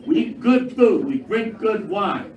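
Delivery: usual speaking voice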